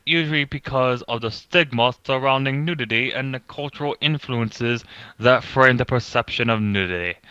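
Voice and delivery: put-on pompous British accent, reading aloud. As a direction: read it like a pompous British narrator. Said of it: "read it in a pompous British voice".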